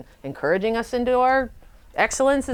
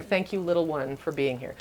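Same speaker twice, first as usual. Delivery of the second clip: tender thanks; 3 semitones lower, 6 dB quieter than usual. Retold or imitated.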